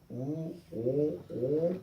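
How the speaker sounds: long drawn-out round "우, 오, 오" sound; stretched vowel demo. Shown as a demonstration. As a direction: slowly stretch the "오" as in walk. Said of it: "walk 이렇게 됩니다".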